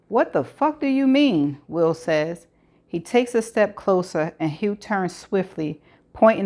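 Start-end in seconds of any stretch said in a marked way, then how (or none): 0.1-1.6 higher, sharp disbelieving demand; shocked outburst. A narrator's reading. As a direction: throw the question back in alarm. Will confronts gunman.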